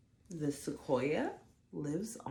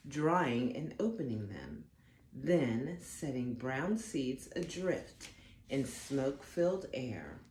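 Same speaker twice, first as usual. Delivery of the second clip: gentle storybook read-aloud; unhurried storytime narration; reading to children. Acted. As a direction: read it like a bedtime picture book. Reads picture book aloud.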